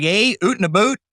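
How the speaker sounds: put-on playful Canadian accent parody; mock Canadian accent. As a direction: poke fun at the Canadian "oot" and "boot". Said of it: "They talk funny. They'll say things like".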